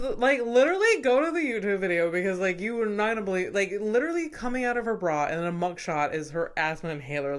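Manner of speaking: fast, loud and excited. Real, not acted. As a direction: rattle it off, thrilled. Excited about the mugshot.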